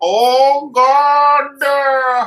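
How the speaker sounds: mock, very high, loud shouted cry. Retelling what a man shouted as he was wheeled back in; retelling a man's shout. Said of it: "he shouted out".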